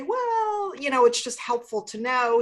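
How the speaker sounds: lightly mimicked evasive interviewer; imitated reporter. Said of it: "And they say".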